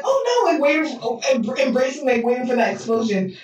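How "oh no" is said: high-pitched acted "oh no"; playful high-pitched alarm; mock dread. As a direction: imitate someone bracing for a blast. Retold bracing for explosion.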